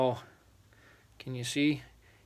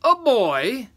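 high, loud, incredulous question; amused giant; 11 semitones higher, 10 dB louder than usual. A narrator's reading. Third giant amused at the catch, incredulous. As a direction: echo it as a big, amused giant. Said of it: "chuckled the third giant".

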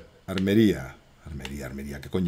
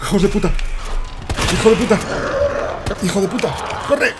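screamed high and loud in real panic; real scared screaming; 11 semitones higher, 7 dB louder, faster than usual. Real, not acted. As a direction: yell the insults in real fright. Susto en juego de terror. (gritos de pánico real, agudos y fuertes)

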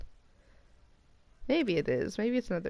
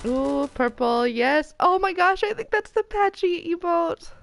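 excited; 10 semitones higher, 7 dB louder than usual. Real, not acted. Gets a wanted emote.

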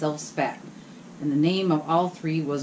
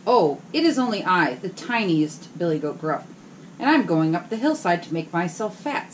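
small goat voice. Acted. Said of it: "with such a small voice".

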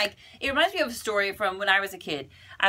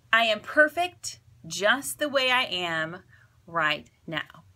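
calm mantra again; slower than usual. Shown as a demonstration. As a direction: gently lead the listener through it. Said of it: "So say it with me".

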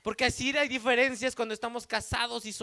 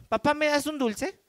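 put-on little girl voice; 5 semitones higher than usual. Four-year-old daughter asking.

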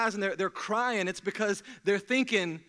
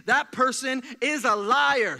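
"liar" dragged out, louder and slower; stress on liar; 4 semitones higher, 7 dB louder, slower than usual. Real, not acted. Preacher telling the church a hypocrite is a liar, punching "liar". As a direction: lean hard on "liar". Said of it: "Say it, pants on fire".

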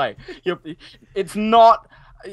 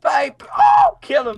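very high, loud yell; high-pitched battle cry; urgent shout; 8 dB louder, slower than usual. Real, not acted. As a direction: shriek the order in panic. Sudden attack in the game.

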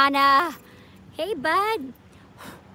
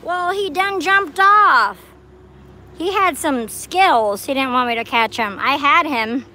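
breathless excitement; 8 dB louder than usual. Real, not acted. Frog escaped after her scream.

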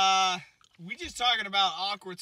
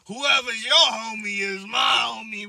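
shouting lady; 5 semitones higher, 13 dB louder than usual. Retold or imitated. Lady spots him and shouts a greeting, loud. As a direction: hail him loudly from afar.

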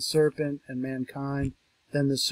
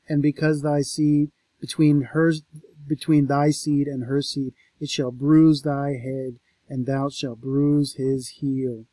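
solemn scripture reading; 7 dB louder than usual. Acted. Lecturer reading the enmity verse, solemn. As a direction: proclaim it line by line. Reads the curse.

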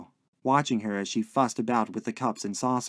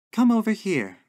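high, loud coaxing call; beckoning landlady; 10 semitones higher, 5 dB louder than usual. A narrator's reading. Landlady calling lodger to the sofa, coaxing. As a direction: summon him sweetly but insistently.

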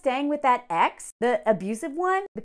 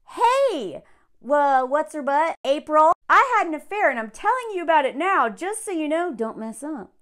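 mocking Frank; 3 semitones higher, 4 dB louder than usual. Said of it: "That's exactly what Frank did".

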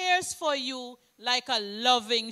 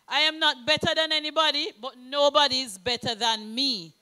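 quoting the Prime Minister; 5 dB louder, faster than usual. Retold or imitated. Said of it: "As the Prime Minister always says".

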